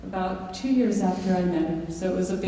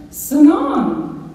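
high, loud parrot squawk of seven; high squawked parrot word; 8 semitones higher, 7 dB louder than usual. Retold or imitated.

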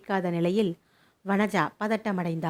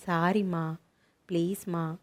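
teary apology; 2 semitones lower than usual. Acted. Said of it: "கண்கள் அழுது அழுது சிவந்திருப்பதை".

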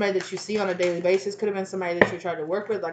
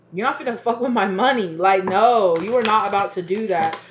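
defiant; 5 dB louder than usual. Retold or imitated. Defiant rant over money.

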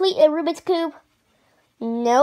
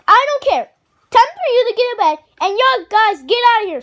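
stern scolding; 5 semitones higher, 4 dB louder, faster than usual. Acted. Dad ordering Junior to bed.

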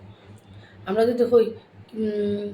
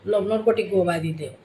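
Sylheti phrase; 2 semitones lower than usual. Shown as a demonstration. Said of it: "আমরা কইব".

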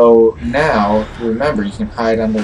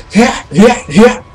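high, loud battle yelps; sharp mimicked sword-swing cries; Link; 11 semitones higher, 9 dB louder, slower than usual. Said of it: "It's like Link".

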